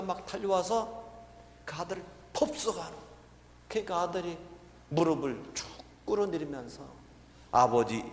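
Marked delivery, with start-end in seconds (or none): none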